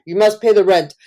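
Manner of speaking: melodrama villain. Retold or imitated. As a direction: threaten her like a stage landlord. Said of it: "vaudeville plays where you're like".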